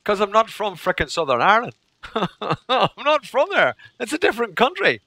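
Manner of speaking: high-pitched, laughing protest; hammed-up indignant reply; mock exasperation. Retold exasperated reply to pupils.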